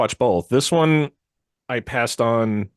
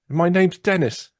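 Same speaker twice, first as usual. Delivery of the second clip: high, slow "My name's Dennis"; Monty Python peasant; 8 semitones higher, slower than usual. Retold or imitated. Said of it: "Monty Python and the Holy Grail".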